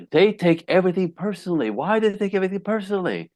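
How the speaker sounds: mildly mimicking a baffled guy; a touch of frustrated radio host. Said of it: "and he's like".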